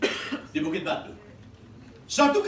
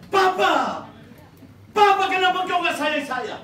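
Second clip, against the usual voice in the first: pleading shout; 8 semitones higher, 5 dB louder than usual. Acted. Anak memprotes ayahnya.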